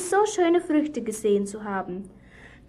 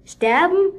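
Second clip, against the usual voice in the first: higher, louder scoffing question; mock disbelief; 6 semitones higher, 4 dB louder than usual. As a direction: scoff at the idea of dying. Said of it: "rief die Schlange".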